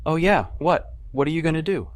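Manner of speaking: mocking. A narrator's reading. Mocking challenge to McDermott.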